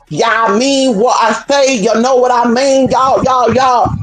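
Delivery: drawn-out Ebonics imitation with urban swag. Showing how Ebonics speakers sound, urban swag. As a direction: stretch it out with put-on urban swag. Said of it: "little bit of urban swag to it".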